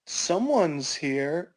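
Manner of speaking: slow, careful hint; guarded hinting. Acted. Bobby hints to his mom that someone's there, slow and guarded.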